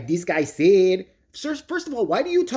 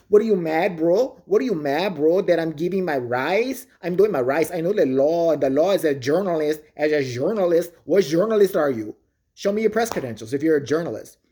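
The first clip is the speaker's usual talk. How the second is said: mock auditor. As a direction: sneer it like a smug auditor. Mocking the auditors in argument.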